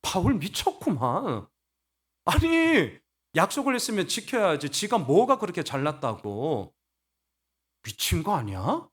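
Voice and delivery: acted scornful grumbling with rising outbursts; mock scornful attack. Corinthians attacking Paul as crazy, mock scornful attack. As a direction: play a disgruntled accuser. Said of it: "미쳤다고 공격했거든요".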